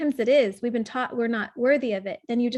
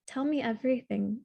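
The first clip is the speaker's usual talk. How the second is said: softer, tender ask; gentle invitation; 5 dB quieter than usual. Shown as a demonstration. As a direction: open the door for a hurt child. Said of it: "how you would talk to ... someone you love".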